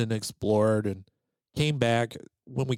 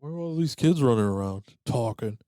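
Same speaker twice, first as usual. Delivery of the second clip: indignant; 5 semitones higher than usual. Retold or imitated. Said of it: "I'm pretty sure I said".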